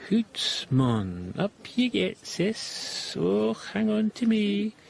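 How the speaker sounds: high-pitched mock Scottish; mock Scottish accent. Husband mimicking the two sisters, mock Scottish accent. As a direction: parody a Scottish old lady, pitched high. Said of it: "What's that, a Scottish accent?".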